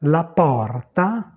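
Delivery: "la porta" slow, final a sounded; Italian pronunciation. Shown as a demonstration. Teacher turning French words into Italian, Italian pronunciation. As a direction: stretch "porta", ending on a clear a. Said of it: "Le O, simplement".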